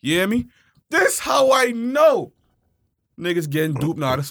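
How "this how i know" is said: slow, higher-pitched outburst; emphatic shout. Real, not acted. Proving his point to his buddy, emphatic shout. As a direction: call it out, stretching each word.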